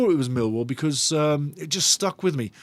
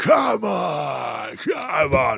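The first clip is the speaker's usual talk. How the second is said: slow, creaky, rousing call, "on" drawn out. Imitating Phil Parkinson whooping up the crowd: Phil Parkinson impression. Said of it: "Phil Parkinson whooping up the crowd".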